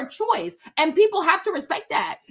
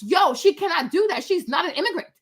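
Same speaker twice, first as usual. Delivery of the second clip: ordinary delivery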